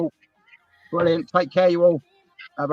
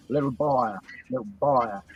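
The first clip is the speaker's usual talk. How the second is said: English accent; 3 semitones lower, 3 dB quieter than usual. Shown as a demonstration. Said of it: "do the English accent of".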